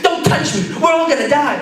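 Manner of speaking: high, loud frantic shriek; mock-panicked old lady yelling. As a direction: snap back in terror. Old lady panicking, refusing help.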